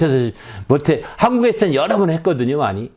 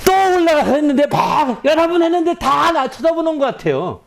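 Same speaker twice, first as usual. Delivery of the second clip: tearful prayer; 12 semitones higher than usual. Retold or imitated. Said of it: "앉아서 막 울었어".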